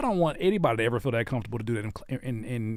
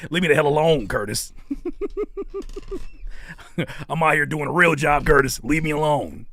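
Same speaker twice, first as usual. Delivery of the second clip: mock scolding; 4 dB louder than usual. Mock scolding friend Curtis.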